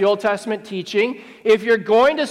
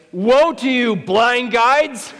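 friendly, people-pleasing way; 2 semitones higher, slower than usual. Acted. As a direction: mock-friendly rebuke with a laugh breaking in. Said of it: "in a make friends and influence people way".

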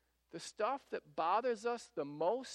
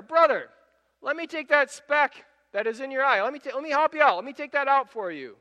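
higher, louder sugary fake helpfulness; a hammed-up do-gooder voice; mock helpful hypocrite; 7 semitones higher, 10 dB louder than usual. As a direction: play the smug busybody offering help. Mocking the hypocrite's offer.

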